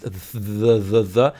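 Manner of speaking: buzzing voiced "th", repeated slowly; "th" with the vocal cords humming, as in "the"; teacher demonstrating voiced "th". Shown as a demonstration. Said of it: "There's the voiced".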